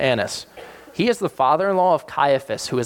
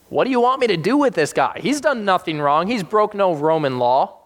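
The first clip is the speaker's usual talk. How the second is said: exasperated Pilate; 5 semitones higher than usual. Retold or imitated. Pilate questioning.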